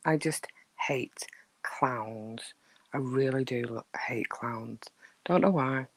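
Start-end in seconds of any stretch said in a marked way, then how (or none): 0.1-3.9 hushed confession. Real, not acted. Confessing fear of clowns. 4.1-4.8 slow whisper of dread; whispered, slow admission; hushed confession. Real, not acted. Confessing fear of clowns.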